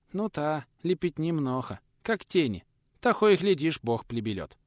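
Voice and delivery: lightly voiced old man, lisping sadly; hint of a lisping old peasant; lisping old craftsman.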